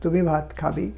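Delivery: softly asked, খাবে lifting slightly at the end; teacher's mild questioning tune, slight rise on খাবে; question intonation. Shown as a demonstration. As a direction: turn "তুমি ভাত খাবে" into a soft question. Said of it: "জিজ্ঞাসার মতন করে দেওয়া".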